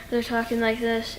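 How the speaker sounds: softly, holding it in like a tender film scene; quiet emotional delivery. Shown as a demonstration. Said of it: "they portray a lot of emotion like this".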